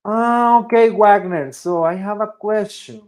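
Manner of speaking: high, loud interjection as a questioning student. Acted. Student interrupting teacher Wagner to ask a question, high and eager.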